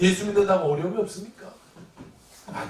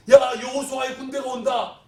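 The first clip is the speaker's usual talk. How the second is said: raised, louder cry of alarm; alarmed warning; 4 semitones higher, 5 dB louder than usual. Acted. Enemies spotting Joshua's army, mock alarm. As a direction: sound the alarm at an approaching army. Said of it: "미리 다 겁먹는 거예요".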